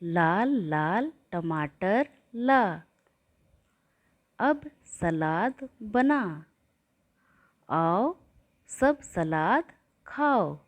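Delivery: put-on slow sing-song rhyme for children; rhyme recital. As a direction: recite it slowly like a nursery rhyme. (बच्चों को कविता सुनाती हुई, धीमी लय में)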